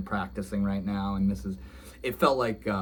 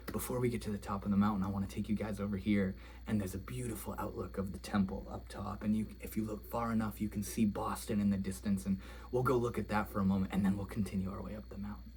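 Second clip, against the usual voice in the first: quiet, gentle voice; soft and gentle; 7 dB quieter, faster than usual. Retold or imitated. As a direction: speak softly like a kind monk. Gentle monk guiding the group.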